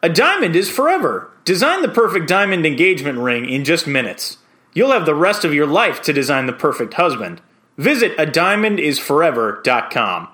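standard commercial voice-over read; clear, measured ad read with a lift on key words. Shown as a demonstration. Voice-over hopeful reading a diamond ad for his audition, standard voice. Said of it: "do it in just a standard, standard voice".

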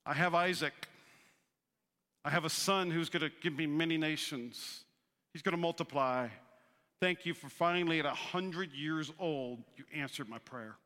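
a lightly voiced satisfied old man; Abraham's voice. Abraham telling God he is comfortable, low. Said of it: "Abraham's going".

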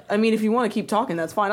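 unruffled, quick reply; calm. Retold or imitated. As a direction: imitate an unbothered boyfriend. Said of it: "Why are you so calm?".

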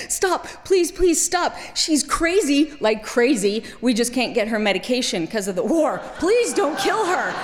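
high, urgent pleading; pleading father. Retold or imitated. Father begging the soldier not to kill his daughter, pleading. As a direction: beg for his daughter's life. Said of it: "threw his hands up and said".

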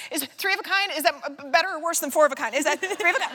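high, anxious fluster over the cards; panicked. Retold or imitated. At the poker table, panicking over hand rankings. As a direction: rattle it off in a nervous panic. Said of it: "an anxiety state".

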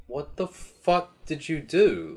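high-pitched, mock-indignant scolding; outraged Super God. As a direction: squawk in hammed-up disbelief.

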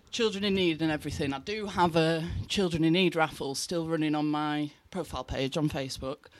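gasping for air between phrases; breathless, winded after dancing; out of breath. Real, not acted. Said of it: "Sorry, I'm well out of breath".

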